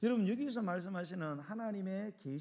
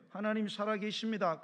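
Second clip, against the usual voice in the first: raised, emphatic assertion; firm declaration; 3 semitones higher, 3 dB louder than usual. Acted. Believer correcting a man who curses God, firm and emphatic. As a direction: declare it firmly, without softening. Repeats the reply as firm warning.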